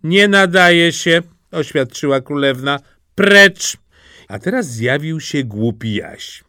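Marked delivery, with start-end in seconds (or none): 0.0-1.2 slow, raised, higher verdict; curt dismissal. A narrator's reading. Princess rejects the second brother, curt dismissal. 3.1-3.8 loud, high one-word order; sharp command. A narrator's reading. Princess sends the second brother away, sharp command.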